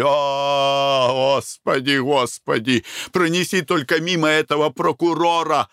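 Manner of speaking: sighing plea. A narrator's reading. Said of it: "вздохнул он".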